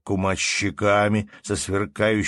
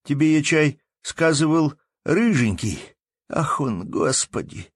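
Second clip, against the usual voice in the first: anguished plea; 7 semitones higher, 4 dB louder than usual. Acted. Anton pleading.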